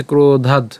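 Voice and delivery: ক্রোধাৎ with a long o and a vowelless final d; final consonant shown. Shown as a demonstration. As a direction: close ক্রোধাৎ on the stopped d. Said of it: "আমরা এখানে দ হসন্ত পর্যন্ত উচ্চারণ করলাম".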